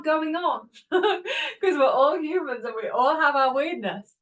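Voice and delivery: slow, laughing through the words; real giggles breaking in. Real, not acted. Self-help speaker laughing at everyone's weirdness. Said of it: "laughs while explaining".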